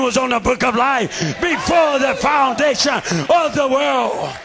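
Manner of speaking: shouted, driving sermon cadence; fiery preaching. Real, not acted. Preacher shouting his testimony to the church.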